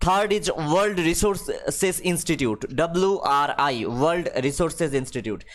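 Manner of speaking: reads the English line very slowly, word by word; slow dictation reading. Acted. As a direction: spell it out for the class at dictation pace. Reads the list of names slowly. (ধীরে ধীরে ইংরেজি পাঠ)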